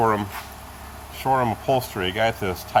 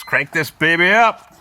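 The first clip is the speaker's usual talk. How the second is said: high, slow, gleeful call; excited shout; 8 semitones higher, 7 dB louder, slower than usual. Real, not acted. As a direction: announce it like a hype man. Revving up old Buick.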